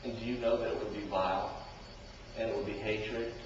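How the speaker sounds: low, soft probing questions; preacher drawing listeners in; intimate. Real, not acted. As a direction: lean in and murmur to the congregation.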